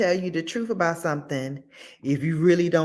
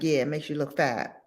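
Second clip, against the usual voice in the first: straight-faced and softer, no smile; deadpan blunt; 3 semitones lower, 4 dB quieter, faster than usual. Retold or imitated. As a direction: deliver it deadpan with a straight face. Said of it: "Straight face, not even laughing".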